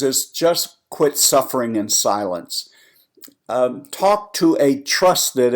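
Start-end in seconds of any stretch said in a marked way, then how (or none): 3.5-5.5 "trusted" slowed and leaned on; stress on trusted. Shown as a demonstration. Advising listeners to find a trusted advisor, leaning on "trusted". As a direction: press hard on "trusted". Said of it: "I emphasize the word trusted".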